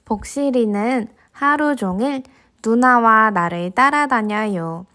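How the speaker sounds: gentle storybook narration; reading to a toddler. A narrator's reading. Narrating picture book to kids.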